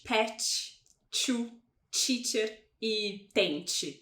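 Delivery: every T as tch in "pet, to, teacher e tente"; "pet, to, teacher e tente" said petch, choo, cheacher, tenche; Brazilian tch sound. Shown as a demonstration. Teacher mimicking learners' habit, tch in "pet, to, teacher e tente". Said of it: "a gente tende a falar".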